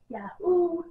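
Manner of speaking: a high, happy whoop; joyful yahoo; cheer. Real, not acted. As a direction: cheer the news. Celebrating the win being updated.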